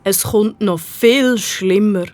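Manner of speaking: lamenting. Acted. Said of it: "klagt der Prinz".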